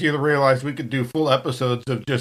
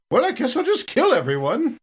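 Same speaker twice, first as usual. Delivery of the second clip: light, amused shrug of a line, a bit higher; laughing mock resignation; 8 semitones higher than usual. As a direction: toss it off like a cheerful shrug, laughing.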